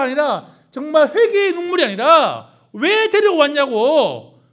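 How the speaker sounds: high, loud, fiery pulpit delivery; preaching at full force. Acted. Preacher rebuking the congregation over grumbling tears, fiery and loud. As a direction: thunder it at the congregation.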